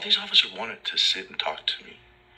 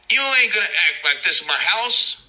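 higher and louder yelled threat; imitating an inmate's yell; 11 semitones higher, 4 dB louder than usual. Inmate yelling from the top tier, loud higher yell. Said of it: "yells to another inmate".

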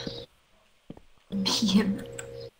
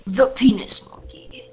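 breathy mock whisper. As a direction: whisper it like a secret. Silly whispered nickname.

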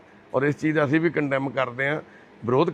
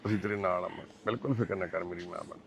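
low, soft comforting voice; calm a distressed mother, keeping it hushed; tender reassurance; 5 semitones lower, 7 dB quieter than usual. Real, not acted. Visitor telling the mother he is her son too, tenderly reassuring.

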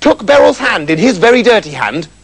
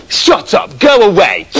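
mildly bratty rebuff; rude princess; 3 semitones higher, slower than usual. Acted. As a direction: brush your father off like a spoilt princess. Spoilt princess rebuffs her father.

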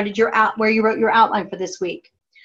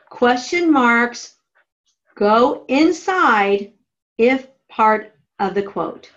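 dictating; slower than usual. Shown as a demonstration. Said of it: "Draw an arrow to your margin that says".

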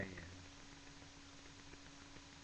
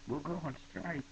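mock threat; 7 semitones higher than usual. Philosopher threatening strike.

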